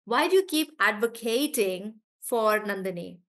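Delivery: "advocating" with a full KATE, ad-vo-KATE-ing; verb stress. Shown as a demonstration. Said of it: "I will stress on this part".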